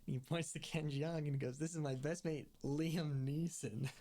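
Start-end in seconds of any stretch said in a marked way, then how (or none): 1.6-2.5 a lightly done Irish lilt, pitched a bit higher; quoting a cop faking an Irish brogue; Irish accent. Retold or imitated. Recapping a TV scene, loosely mimicking a fake Irish accent. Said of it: "supposed to do an Irish accent". 2.6-3.9 put-on Irish accent. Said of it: "supposed to do an Irish accent".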